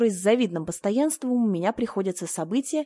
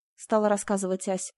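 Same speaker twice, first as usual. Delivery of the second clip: ordinary delivery, nothing marked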